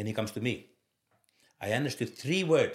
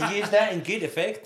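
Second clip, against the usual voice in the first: laughing; 11 semitones higher, 9 dB louder than usual. Real, not acted. Laughing at own clumsy style.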